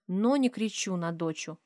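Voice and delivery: ordinary delivery, nothing marked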